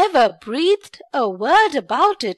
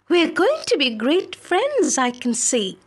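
put-on much higher, bright girl's voice; eager young maid; 4 semitones higher than usual. Filippipa character voice.

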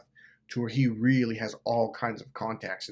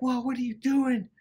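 high-pitched retold disbelief; alarmed protest; 11 semitones higher than usual. Teller confronting Jeff outside the office, alarmed protest.

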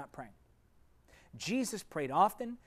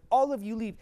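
loud, higher command; commanding order; 5 semitones higher, 7 dB louder than usual. Acted. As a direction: order them all out with authority. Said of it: "He said".

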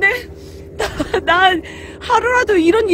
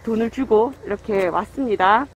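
muffled behind cloth mask; talking through a face mask; 9 semitones lower, 5 dB quieter than usual. Real, not acted. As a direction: voice through covered mouth. Seen 1: cloth mask covers mouth and nose throughout, absent in R frames.

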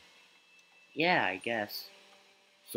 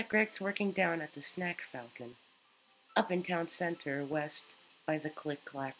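lightly voiced caring mother, higher; gentle motherly tone, pitched up; mom voice; 4 semitones higher than usual. Streamer voices Mom character.

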